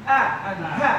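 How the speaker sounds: Ah and ha from the bottom of the throat; throat letters demo. Shown as a demonstration. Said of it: "when I say ah and ha".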